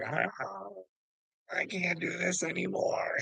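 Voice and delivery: high, breaking mock-tearful whimper; mock crybaby. Retelling Johnny's tears in the office, mock crybaby. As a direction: imitate a crybaby giving up, voice thin. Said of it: "real crybaby tears".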